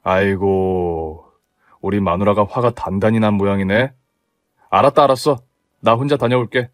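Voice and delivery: husband yielding to his angry wife; resigned husband. Acted. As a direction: give up with a sigh. Husband gives in.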